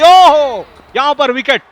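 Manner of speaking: sudden thrilled shout; excited cricket commentary. Real, not acted. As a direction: cry out at the wicket. Wicket falls live on air.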